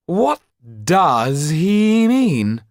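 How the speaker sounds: very high, loud, slow outraged question; indignant Marquis. Acted. Marquis hearing the count's demand, shrill and loud. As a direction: disbelief that anyone would dare.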